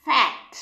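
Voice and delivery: fat with a short a. Shown as a demonstration. Teacher models ফ্যাট with a short a. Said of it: "বলো".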